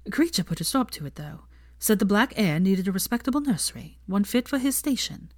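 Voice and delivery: a hint of a young woman's voice; Hermione voice.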